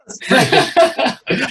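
a high, loud burst of laughter; big laugh. Real, not acted. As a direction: laugh out loud at your own joke. Host laughs at own line.

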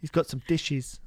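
slow mock Cockney; Cockney accent. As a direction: imitate her in a rough Cockney accent. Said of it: "The accent that you gave me".

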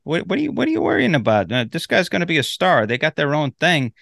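mock a dismissive, what's-the-worry reply; lightly acted, high-pitched reassurance; a singer. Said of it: "a singer is like".

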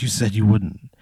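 understated crying wife, no real sobs; retold tearful reproach. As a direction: voice a hurt wife at normal volume. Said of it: "she just starts crying".

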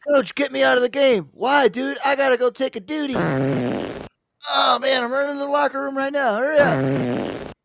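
very high, mock-desperate pleading; urgent football player. Player begging coach out of the game, hammed-up urgency. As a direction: plead as if you can barely hold it.

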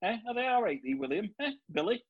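imitating brothers in thick Yorkshire dialect; broad Yorkshire, lilting up on the questions; broad Yorkshire accent. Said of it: "they all speak like this".

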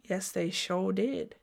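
slow and soft, drawn out; soft slow agreement. Real, not acted. Host answering her own question softly and slowly. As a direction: savour the answer quietly to yourself.

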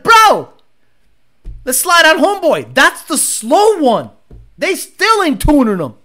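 a hint of a Black guy from the hood, egging a friend on; black guy accent. Streamer imitating Pookie rallying homeboy in a light Black street accent. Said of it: "That's my black guy accent".

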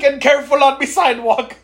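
high, laughing pirate voice; pirate-like voodoo man. Retold or imitated. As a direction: echo the pirate warning for laughs. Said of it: "Like you said".

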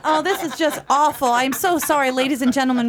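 light touch of a polished tour guide. Acted. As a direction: announce it like a theme park tram guide. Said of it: "I can hear you on that tram".

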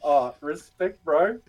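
half-cracking up in admiration; laughing respect. Retold or imitated. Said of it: "I was just like".

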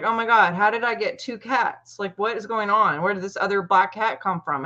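retold mild panic, slightly lifted pitch; mildly freaking out. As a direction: lightly act out a friend's bewildered freak-out. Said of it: "she's freaking out".

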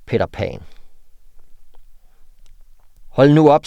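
reading an absurd threat letter aloud; deadpan mock-menacing read of cut-out words; dramatic reading. Reads a collage threat letter aloud. (dramatisk oplæsning af et trusselsbrev)

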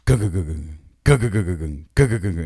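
camera clunk noise. Retold or imitated. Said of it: "the camera goes".

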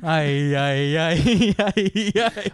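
rising ay-ay-ay, half laughing; excited exclamations. Acted.

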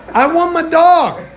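slow, high, loud yell; acted-out comic fury at full pitch; angry demand. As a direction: demand it with each word drawn out. Retold quarrel, demanding his dog.

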